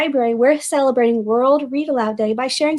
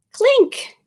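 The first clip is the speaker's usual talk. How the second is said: title announced; 11 semitones higher than usual. Acted. Book title announced dramatically.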